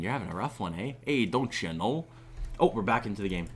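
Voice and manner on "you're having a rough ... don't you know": playful, lightly put-on Canadian accent. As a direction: ham up a little Canadian, slowing at the end. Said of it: "too busy doing my accent".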